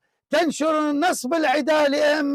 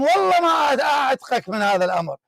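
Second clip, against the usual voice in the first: raised, forceful oath in the heat of argument; heated vow; faster than usual. Real, not acted. Heated debate, vows not to release.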